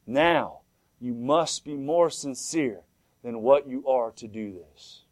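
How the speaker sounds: slow, weighty retold instruction; voice from heaven. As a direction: space the words out solemnly. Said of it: "the voice said".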